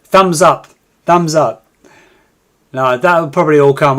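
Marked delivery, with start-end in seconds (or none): 0.0-1.6 a hint of a chirpy on-screen prompt, louder; mock screen button. Streamer mimics the screen buttons he lacks, mock chirpy. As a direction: lightly voice the pop-up buttons. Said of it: "buttons that come on the screen saying".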